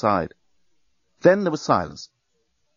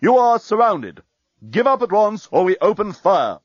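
booming enemy voice; 9 semitones higher, 4 dB louder than usual. A narrator's reading. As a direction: boom it down from above like a loudspeaker. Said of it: "A voice suddenly boomed".

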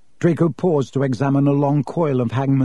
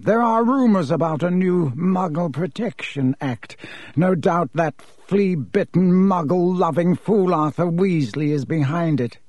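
slow, higher, scornful aristocrat; haughty Malfoy; 4 semitones higher than usual. Acted. Malfoy rails against the Ministry, slow and sneering. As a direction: sneer out the contempt, unhurried.

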